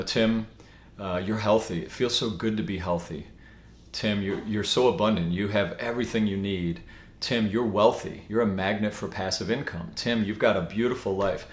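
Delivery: soft, tender self-talk to himself; gentle affirmation. Shown as a demonstration. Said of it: "And I'll say".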